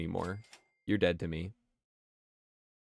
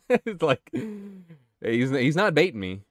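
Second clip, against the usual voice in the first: laughing protest; 8 semitones higher, 5 dB louder than usual. Real, not acted.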